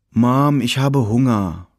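put-on high, whiny kid begging for food; whining child. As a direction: whine it like a tired, hungry boy. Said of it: "Seiner quengelnden Stimme".

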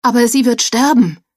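high, loud horrified cry. A narrator's reading. Joel on his knees warns the others, horrified high cry. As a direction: cry out in panic that she will die. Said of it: "mit Entsetzen auf".

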